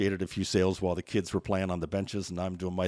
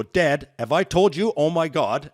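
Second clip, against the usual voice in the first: mock alarm; 4 semitones higher, 7 dB louder, slower than usual. Daughter's mock alarm, retold.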